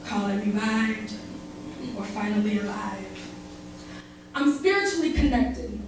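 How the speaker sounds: tender spoken-word recital; spoken word love poem. Acted. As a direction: perform it like a slam poem to a lover.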